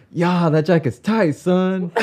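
high, slow, drawn-out mock taunt; playful high-pitched swagger; imitated movie bully. Retells movie girl's taunting lines.

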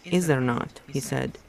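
steady read-aloud novel narration; story narration. A narrator's reading. Reader narrating a novel chapter aloud, in storytelling voice. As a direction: read the book to your listeners, evenly.

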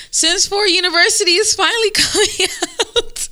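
high, loud, gleeful reveal; excited announcement. Real, not acted.

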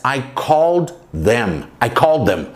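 I called them, said slowly and clearly, then repeated; careful slow repeat; slow model sentence. Shown as a demonstration. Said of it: "em inglês você tem que falar".

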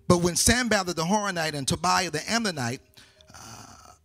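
emphatic public Bible reading; projected, declamatory scripture reading. A narrator's reading. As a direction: read the passage out firmly to a congregation. Reads scripture aloud to congregation.

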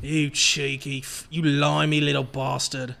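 mock British sign-off. Signing off in mock accent.

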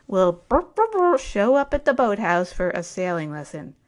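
imitating a loudspeaker call that mangles the name; a hint of a tinny dockside PA; mock loudspeaker announcement. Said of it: "I heard my name over the loudspeaker".

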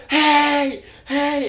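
high, loud mock yell of hey. Friend imitating a drunk girl yelling at them, mock yell. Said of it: "she just starts yelling at us".

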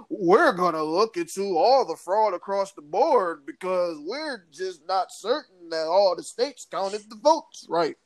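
lightly mimicked politician with a lilting, repetitive tune; lightly mock an official's stump-speech cadence; Rudy Giuliani. Podcast host quoting election fraud claims, lightly mocking singsong. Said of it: "Rudy Giuliani".

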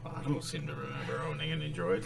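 mock Obi-Wan. Imitating Obi-Wan, then retort.

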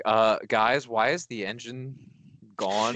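mock concern, climbing sharply on the last word; worried passenger. Passenger alerting others to a missing engine, mock worried. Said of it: "Being the first person to notice that. Be like".

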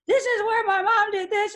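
high chirpy tour guide. Pretend. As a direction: present it like a museum guide. Imagined museum tour guide.

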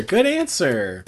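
drawn-out slow repeat. Shown as a demonstration. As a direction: stretch each word slowly. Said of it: "repeated take".

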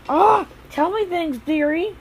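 high, slow, sugary coaxing voice; mock sweet coaxing. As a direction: coo it like a syrupy old granny. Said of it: "and it's like".

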